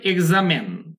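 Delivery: এক্সামেন with last syllable "men"; stress-led "eg-za-men", short final vowel; American pronunciation. Shown as a demonstration. Teacher showing learners American pronunciation, "men" ending. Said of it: "এর উচ্চারণ হবে".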